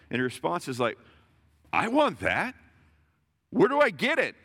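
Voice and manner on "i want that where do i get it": eager woman's plea. Acted. Woman's eager response, acted.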